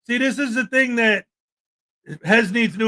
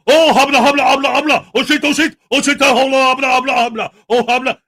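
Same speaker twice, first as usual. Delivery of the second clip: loud, babbling fake Arab accent parody; hammed-up fake Arab accent; mock fake Arab accent; 4 dB louder than usual. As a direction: imitate a man's bogus Arabic with loud gibberish. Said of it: "fake Arab accent".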